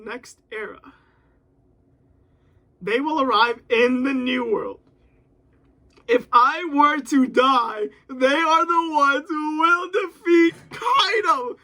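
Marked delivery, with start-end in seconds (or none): 6.1-11.5 slow, loud dramatic character line; dramatic reading. Acted. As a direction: deliver it like a dying captain's last words.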